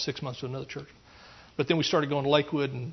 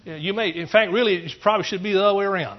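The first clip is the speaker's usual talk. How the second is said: higher, louder preacher's challenge; preaching at full force; 4 semitones higher, 6 dB louder than usual. Acted. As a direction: hammer the questions at the congregation.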